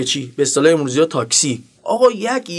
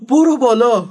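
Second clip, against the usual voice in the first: higher-pitched mock scared retort; acted fearfulness; 5 semitones higher, 4 dB louder than usual. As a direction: play a rattled driver parroting an order. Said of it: "با همون حالت ترسولتش گفت".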